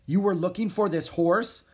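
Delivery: stern, high challenge. A narrator's reading. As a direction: question them like a stern prince. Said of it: "Prince Alexander asked sternly".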